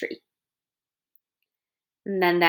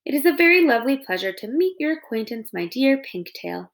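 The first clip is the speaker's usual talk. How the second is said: overly polite; 4 semitones higher than usual. Acted. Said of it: "friendliest voice she could muster".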